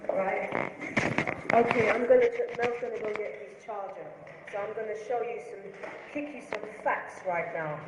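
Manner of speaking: winded from the stairs; breathless, gasping between phrases; out of breath. Real, not acted. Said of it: "Sorry, I'm out of breath".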